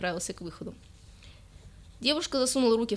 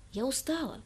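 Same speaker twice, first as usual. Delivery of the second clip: squeaking; 5 semitones higher, 4 dB quieter than usual. Acted. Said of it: "пропищала девушка".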